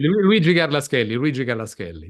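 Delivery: Luigi Garla Scaly as "Luigi Garlas-kelli"; Italian pronunciation. Shown as a demonstration. Guest repeating the full name as correction, Italian pronunciation. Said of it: "instead of Italian pronunciation".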